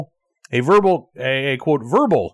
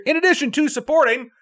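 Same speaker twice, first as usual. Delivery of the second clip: much higher, deliberate retake of the phrase; emphatic self-correction; 11 semitones higher than usual. Real, not acted. Host fixing a stumble in the sign-off, emphatic self-correction. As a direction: restart the flubbed phrase, pitched way up. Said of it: "I don't know why English is my second language".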